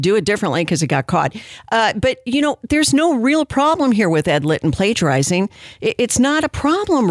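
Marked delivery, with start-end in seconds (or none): 1.7-7.1 a little higher, airy mock reassurance; sarcastic excusing. Host pretending the plagiarism is no problem, sarcastic. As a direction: make light of it with obvious sarcasm.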